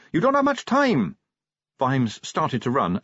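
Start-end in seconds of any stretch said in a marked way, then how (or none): 0.1-1.2 high urgent yell; raised, carrying voice. A narrator's reading. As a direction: call out a hurried warning. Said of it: "he yelled".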